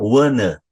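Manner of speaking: "wanna" with a neutral uh ending; reduced ending demo. Shown as a demonstration. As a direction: model "wanna" as one word. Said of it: "ele vai ter o som do an".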